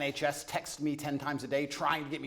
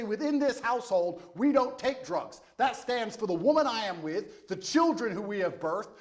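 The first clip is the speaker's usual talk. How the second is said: slow, measured disciplinarian laying down rules; man of the house; 4 semitones higher, slower than usual. Acted. Guest voicing the man of the house setting house rules, stern and deliberate. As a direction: lay down the law slowly, word by word. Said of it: "the man of the house will come along and be a disciplinarian".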